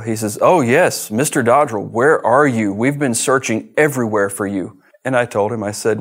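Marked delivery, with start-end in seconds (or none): 0.4-4.8 eager FBI agent. Retold or imitated. Agent on the phone finally reaching him, eager and louder. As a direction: play the agent, pitched up and loud with relief.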